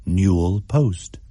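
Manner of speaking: ordinary delivery, nothing marked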